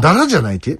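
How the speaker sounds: accent on the ラ of ダラ; stress on ラ. Shown as a demonstration. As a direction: lift the second syllable ラ in ダラ. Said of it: "ダラのアクセントはラです。".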